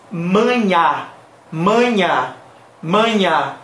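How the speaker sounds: maña with nasal first vowel, oral ending; manha without tilde. Shown as a demonstration. Teacher pronouncing the word without tilde, oral ending. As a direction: open the last A of maña. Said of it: "sin la culebrita existe".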